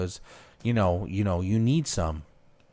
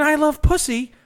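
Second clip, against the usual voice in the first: mock scream, high and loud; hammed-up shout; screaming old man; 7 semitones higher, 4 dB louder than usual. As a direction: holler it in imitation. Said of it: "He's screaming".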